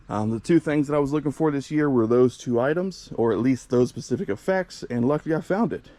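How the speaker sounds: winded, breathing hard between phrases. Real, not acted. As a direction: talk while catching your breath in the heat. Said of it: "you guys might hear I'm kind of out of breath".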